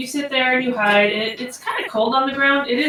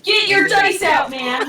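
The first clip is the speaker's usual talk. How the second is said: louder and higher, hurrying; loud call; 9 semitones higher, 7 dB louder than usual. Real, not acted. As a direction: call out impatiently to a player. GM hurries slow player.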